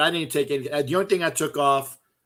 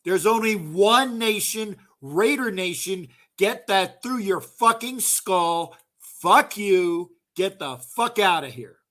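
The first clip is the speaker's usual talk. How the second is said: retold confrontation; 4 semitones higher, slower than usual. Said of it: "I said".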